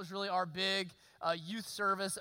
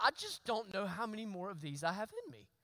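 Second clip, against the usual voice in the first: wry laugh; 4 dB quieter than usual. Retold or imitated. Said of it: "But I thought".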